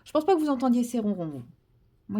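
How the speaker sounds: ordinary talk, nothing marked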